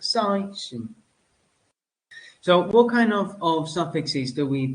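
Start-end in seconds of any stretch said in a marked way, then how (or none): 0.0-0.9 "station" as a word ending, first syllable raised and held; stress near word's end. Shown as a demonstration. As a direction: lift and stretch SA in "sation". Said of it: "end of the word".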